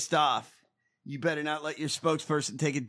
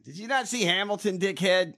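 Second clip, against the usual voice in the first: higher-pitched incredulous challenge; mock scolding; 3 semitones higher than usual. Host berating Hamilton for not foreseeing this, mock scolding. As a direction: scold them in mock disbelief.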